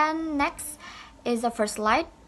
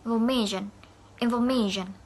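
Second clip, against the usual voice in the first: "Information" said infor-MA-tion; stress on middle syllable. Shown as a demonstration. Teacher modelling word stress for students, stressed "inforMAtion". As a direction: lean on MA in "information". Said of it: "stress in the middle of the word".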